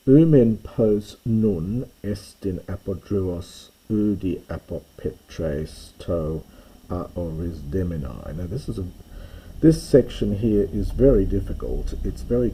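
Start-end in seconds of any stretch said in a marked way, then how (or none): 0.1-8.4 slow measured recital; reading Greek verse aloud. Shown as a demonstration. Teacher reciting the next Greek line, slow and measured. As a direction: read the verse out slowly.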